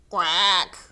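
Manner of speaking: loud, short duck quack; agreeing quack. Acted. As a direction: quack a firm yes. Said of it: "Cow agreed".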